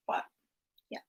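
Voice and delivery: ordinary talk, nothing marked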